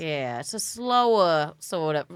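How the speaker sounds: slow Rock Hill South Carolina accent. Shown as a demonstration. Comic showing her hometown Rock Hill accent, slowed down. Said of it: "I'm doing the Rock Hill accent".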